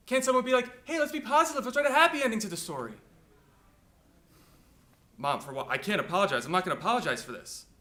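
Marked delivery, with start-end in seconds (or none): 0.1-2.9 high, mock-upbeat appeal; exasperated plea. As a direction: plead in a raised, sarcastically positive voice. Imagines a positive writer, exasperated.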